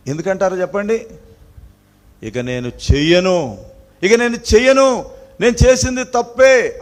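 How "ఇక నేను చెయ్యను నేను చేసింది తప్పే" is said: higher, louder pleading promise; repentant plea. Retold or imitated. Preacher voicing a beaten child begging, higher and louder. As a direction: beg forgiveness, voice rising. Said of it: "అది గ్రహింపు అన్నమాట".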